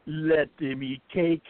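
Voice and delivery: poem read in a put-on Jamaican accent. Reading Zephaniah's poem as he asked, in a Jamaican accent. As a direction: give it your best Jamaican accent, playful. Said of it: "in your best Jamaican accent".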